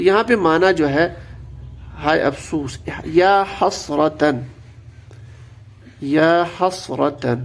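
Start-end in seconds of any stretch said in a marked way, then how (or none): 3.0-7.3 یا حسرتن intoned very slowly, stretching یا; slow Quran-style intoning; Quranic recitation. Shown as a demonstration. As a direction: recite یا حسرتن word by word like a verse. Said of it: "تو ہم اس کا معنی لکھیں گے".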